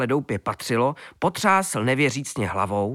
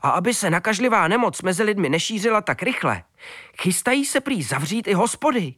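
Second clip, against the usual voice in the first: fast, high, eager telling; dog bursting to share the news; a lightly voiced excited dog; 7 semitones higher than usual. A narrator's reading.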